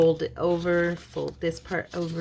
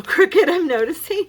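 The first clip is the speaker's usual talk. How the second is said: laughing; 12 semitones higher, 9 dB louder than usual. Real, not acted. Laughs at her crooked fold.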